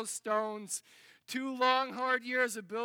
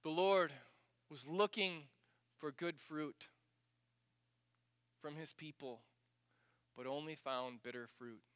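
hushed sorrow; 6 semitones lower, 7 dB quieter than usual. Real, not acted. Quiet sorrowful summary.

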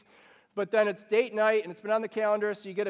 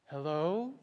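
softer, lower polite phone voice; fake sweet hello; 4 semitones lower, 5 dB quieter than usual. Parent answering the phone after a fight, lightly put-on calm. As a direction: answer as if nothing was wrong.

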